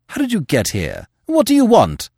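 sharp, rising high demand. A narrator's reading. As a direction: bark the questions at him. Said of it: "demanded the editor".

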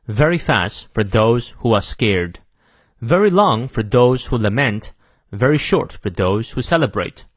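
measured American English model reading; careful American accent, pausing between phrases; American pronunciation. Shown as a demonstration. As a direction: read it in clear General American, R's sounded. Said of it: "美式发音我们来过两遍".

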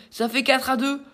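excited. Real, not acted. Announcing the new score.

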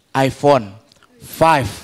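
low, drawn-out bragging; mock boasting. Passenger showing off his phone on the plane, boastful. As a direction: brag lightly, pausing between the words. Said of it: "besok dia nyombong lagi di pesawat".

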